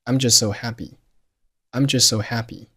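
"just so" run together as "jusso"; one shared S in "just so", no T; merged S sounds. Shown as a demonstration. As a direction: link "just so" with a single S. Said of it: "咱们就保留一个就好了".

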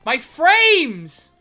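loud, high wail; anguished cry. Real, not acted. Gamer lamenting dropped frames, anguished cry. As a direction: cry out over lost frames. Cries out during game.

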